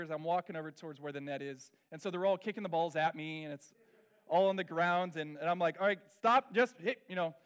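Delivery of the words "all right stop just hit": loud, sharp coach bark; coach yelling. Retold or imitated. Coach yells at girls to stop kicking, loud. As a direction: shout it across the field. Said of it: "I'm in that kind of coach mode".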